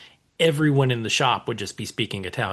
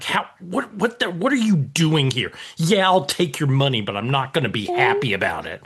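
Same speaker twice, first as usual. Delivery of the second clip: grumpy nonna. Retold or imitated. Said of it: "a big scowl on her face".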